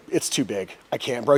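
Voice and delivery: low, soft defeated answer; retold helpless reply. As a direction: quietly give up, imitating the friend. Friend's helpless reply, after yelling.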